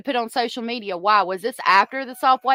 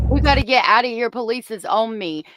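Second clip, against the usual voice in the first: louder, fast, sneering repeat of the line; mocking quote; 4 dB louder than usual. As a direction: throw her words back at her with contempt. Mocking replay of daughter's line.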